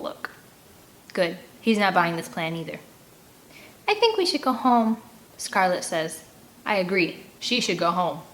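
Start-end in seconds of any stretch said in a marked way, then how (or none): 3.9-5.0 put-on higher, louder pleading girl voice; whiny plea. A narrator's reading. Girl begging the group to go home, whiny. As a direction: whine it, wanting out. Scared girl wants to leave.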